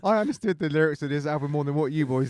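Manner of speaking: high, laughing banter; laughing boast. Real, not acted. Bantering through the group's laughter.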